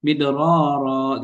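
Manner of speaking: "Midororo" with the ro syllables rolled and swapped; Sulawesi ro mix-up. Shown as a demonstration. Showing how Sulawesi speakers mangle ro, "Midororo" with swapped syllables. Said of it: "ro-nya itu menjadi ra".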